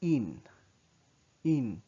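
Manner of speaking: in said with rounded lips; French U sound. Shown as a demonstration. Teacher demonstrating a rounded vowel, careful pronunciation. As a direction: circle the lips and say in. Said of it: "instead you say".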